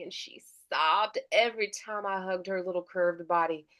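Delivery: Southern vibe. Acted. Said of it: "more of that, like, Southern vibe".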